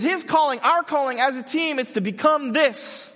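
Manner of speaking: loud and high, driving the point; intense coaching. Retold or imitated. Coach insisting to the assistant, loud and intense. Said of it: "He says".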